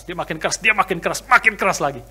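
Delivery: building from plain to loud. Shown as a demonstration. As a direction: raise the volume on each repeat. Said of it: "maka suaranya makin keras". (makin lama makin keras)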